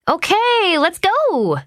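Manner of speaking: bright urging. A narrator's reading. Mother rousing reluctant child.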